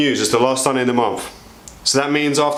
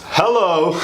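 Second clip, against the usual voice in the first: silly voice; 5 semitones higher than usual. Pretend. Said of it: "sorry, I don't know why I amused myself".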